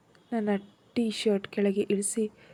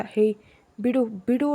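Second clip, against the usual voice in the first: mild shout; 2 semitones higher, 5 dB louder than usual. A narrator's reading. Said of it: "ಕಿರ್ಚ್ತಿದ್ದೆ".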